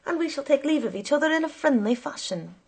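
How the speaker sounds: smooth things over with the driver. A narrator's reading. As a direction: amiable conciliation, lightly brisk. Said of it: "I added more amiably".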